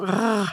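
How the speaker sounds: "rr" as a held uvular r; drawn-out back-of-the-throat "rr". Shown as a demonstration. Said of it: "Det är faktiskt ett bakre R-ljud".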